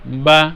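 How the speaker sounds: বা short and even, voice stopped promptly; teacher's model of a brief, steady বা; short, unforced vowel. Shown as a demonstration. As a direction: say বা and close off the sound as soon as the mouth opens. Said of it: "খেয়াল করেন".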